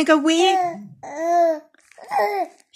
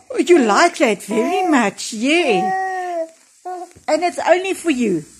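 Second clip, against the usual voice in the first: pet talk. Real, not acted. Cooing to the pet at length.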